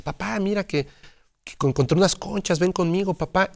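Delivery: put-on little girl voice. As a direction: sound like an excited eight-year-old.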